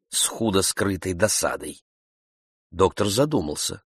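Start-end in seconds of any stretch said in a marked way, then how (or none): none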